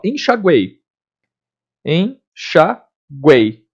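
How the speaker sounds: "enxaguei" ending in "gwei", with a clear U glide; U pronounced. Shown as a demonstration. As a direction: sound the U in "enxaguei". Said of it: "O U é pronunciado".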